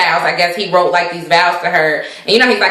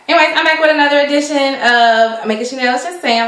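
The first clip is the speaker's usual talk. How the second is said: higher, faster, brighter intro redo; upbeat restart; 5 semitones higher, faster than usual. Shown as a demonstration. Vlogger redoing her show intro with more energy. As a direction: punch the show intro up like a host. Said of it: "Anyways, okay".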